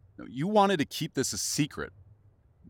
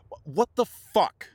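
sudden high, loud burst of disbelief; furious shout of disbelief; shocked outburst; 8 semitones higher, 6 dB louder than usual. Acted. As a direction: explode at the betrayal. Confronting lover about engagement.

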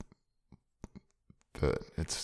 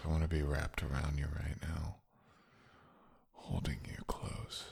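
tender whisper; 6 dB quieter than usual. Acted.

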